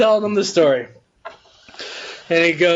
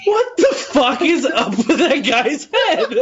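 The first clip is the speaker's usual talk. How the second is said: laughing disbelief; 5 semitones higher than usual. Acted. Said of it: "he's like".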